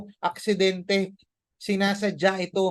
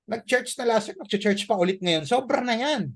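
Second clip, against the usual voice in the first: higher-pitched scoffing voice of a nagging friend; mocking critics; 5 semitones higher than usual. Friends scoffing at a churchgoer, lightly mocking.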